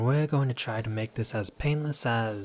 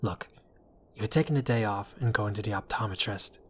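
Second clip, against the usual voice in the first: normal talking voice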